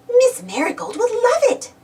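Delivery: high, bright gleeful delight. A narrator's reading. Periwinkle tells a friend about the surprise, gleeful and high. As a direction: squeal it out with glee. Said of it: "Periwinkle said gleefully".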